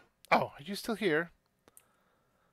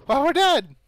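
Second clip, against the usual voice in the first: tiny excited voice; 8 semitones higher, 11 dB louder than usual. Acted. Shopkeeper laughing voice.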